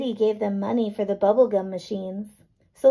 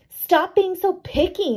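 higher, slow, louder cross voice; mock-angry boy; 8 semitones higher, 4 dB louder than usual. A narrator's reading. Boy shouting back at his friend, mock-angry. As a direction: scold her like a sulky boy. Children quarrelling in story.

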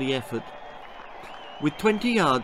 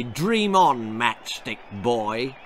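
sneering; slower than usual. Acted. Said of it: "sneered Anthony".

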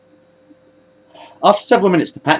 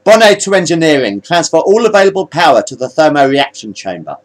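commanding order; 5 semitones higher, 4 dB louder than usual. Acted. New commander gives orders.

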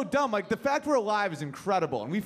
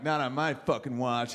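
low heroic vow; 6 semitones lower than usual. Retold or imitated.

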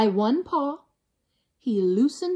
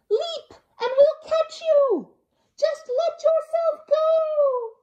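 high, loud coaxing call; urging crowd; 5 dB louder, slower than usual. Acted. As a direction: urge him to jump. Crowd urges Kevin.

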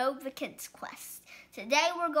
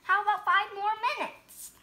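wheedling pigeon. Acted. Pigeon bargains.

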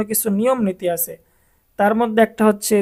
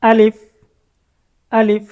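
loud recitation; 6 dB louder than usual. Shown as a demonstration. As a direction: call out the letter name loudly. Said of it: "জোরে বলেন।". (জোরে উচ্চারণ)

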